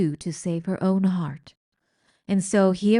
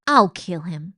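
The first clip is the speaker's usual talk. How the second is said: fierce threat; 6 dB louder than usual. Acted. Meg threatens.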